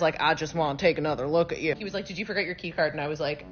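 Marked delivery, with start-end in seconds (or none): 0.2-1.8 a hint of Southern twang, lower pitch; Bradley Cooper. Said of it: "the way Bradley Cooper says". 2.1-2.9 lightly imitated Southern accent; southern drawl. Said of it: "like, a southern drawl".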